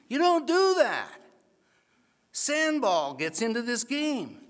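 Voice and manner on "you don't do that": high, loud outraged cry; incredulous squeal; shocked disbelief. Retold or imitated. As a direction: voice jumps up in disbelief at the play. Outraged at two-man receive.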